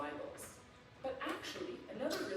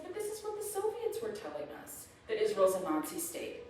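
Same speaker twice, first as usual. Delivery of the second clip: imitating mom. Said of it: "she said".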